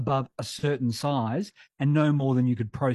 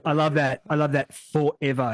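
Sir Douglas Mawson. Retold or imitated. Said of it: "he says".

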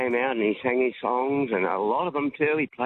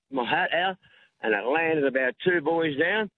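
usual speaking voice

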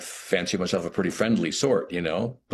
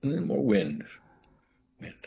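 a higher, musing "Mm, more wind" that hangs on the words; a lightly voiced hint of the director, dreamy; imitating director; 6 semitones higher than usual. Actor imitates David Lynch giving his note, lightly voiced. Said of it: "And he'd just say".

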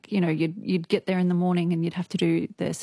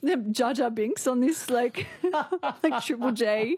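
mocking listener voice; 5 semitones higher than usual. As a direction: send up a grumpy text listener. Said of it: "and he said".

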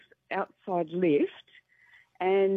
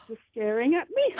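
ordinary delivery

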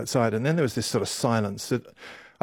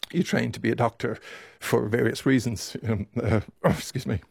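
voice breaking. Real, not acted. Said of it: "voice might betray me there".

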